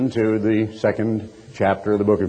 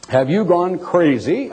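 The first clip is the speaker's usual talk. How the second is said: slow, raised incredulous ask; a touch of disbelief, drawn out; incredulous question; 6 semitones higher, slower than usual. Acted. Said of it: "I asked incredulously".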